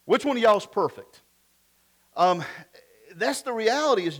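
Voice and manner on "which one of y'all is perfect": put-on raised, louder Southern-accented challenge; punchy Southern "y'all" question; Jesus with Southern accent. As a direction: call them out in a Southern accent. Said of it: "I always think of Jesus having a southern accent".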